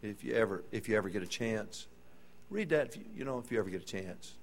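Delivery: a hint of a brushed-off, hurried witness who keeps putting it off; lightly voiced busy man, dismissive and distracted; mock busy Christian. Preacher mocking a lazy believer, offhand and dismissive.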